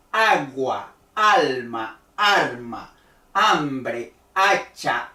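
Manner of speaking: teacher demo, lean on the opening A and let the tone drop; stressed first syllable. Shown as a demonstration. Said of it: "tiene un tono alto y después baja".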